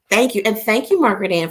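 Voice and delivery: usual speaking voice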